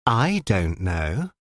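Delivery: slow, unruffled calm; father answering his daughter calmly, unruffled; imperturbable. Acted. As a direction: answer without a flicker of concern. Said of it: "said her father imperturbably".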